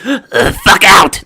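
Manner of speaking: squeaky little creature yelling; high, slow, furious tiny voice; pixie. Acted. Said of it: "you hear a little voice from the room. It goes".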